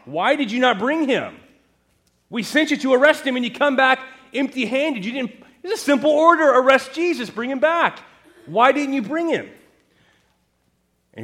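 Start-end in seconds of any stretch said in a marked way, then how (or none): 0.1-9.5 loud, high, indignant questioning; exasperated scolding. Acted. Pharisees scolding the empty-handed officers, loud indignant rebuke. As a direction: bark the question like a furious superior.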